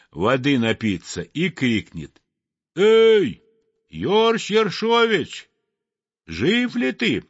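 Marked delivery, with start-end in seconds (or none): 2.8-7.2 calling out. Acted. Sparrow calls down the ice hole.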